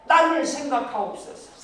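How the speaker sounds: loud high cry to God, then slow and pleading; Samson's plea. Acted. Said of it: "하나님 앞에 뭐라고 그랬느냐".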